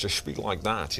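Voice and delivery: rough sketch of a common Scottish-actor impression; Sean Connery. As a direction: lightly imitate other people's shallow take. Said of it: "when they do Sean Connery".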